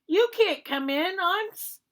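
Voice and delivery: high, loud yell of a scared pig. Acted. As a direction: shout the wolf away from the door. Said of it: "He yelled back".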